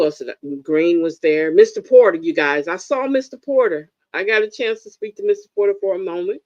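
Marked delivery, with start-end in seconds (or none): 1.5-6.4 higher-pitched, delighted announcement; real excitement, pitch jumping up; excited. Real, not acted. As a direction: share a thrilling sighting with your friends. Delighted news of seeing Mister Porter.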